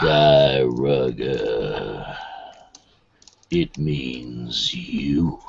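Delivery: slow, deep gravelly growl. Shown as a demonstration. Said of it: "gravelly voice like that".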